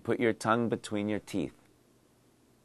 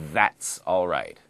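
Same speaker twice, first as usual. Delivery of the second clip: reassuring; 3 semitones lower, slower than usual. Shown as a demonstration. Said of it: "today's dialogue".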